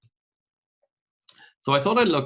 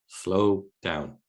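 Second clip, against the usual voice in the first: calm advice. Shown as a demonstration.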